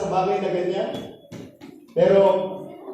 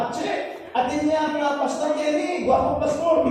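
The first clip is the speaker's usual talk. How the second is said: imitated old man; 7 semitones higher than usual. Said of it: "Sabi niya".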